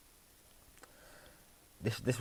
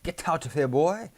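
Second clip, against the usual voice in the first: higher-pitched mock brush-off; imagined rejection; 6 semitones higher than usual. Man imagines being told to get lost by a woman, mock brush-off. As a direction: send them away, voice climbing at the end. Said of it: "I'd have just been like".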